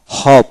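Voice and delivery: হপ with a drawn-out "ou" glide; teacher's careful হপ, vowel as "ou"; ou-vowel demo. Shown as a demonstration. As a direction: say হপ slowly with an "ou" vowel. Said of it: "ঔকার হবে".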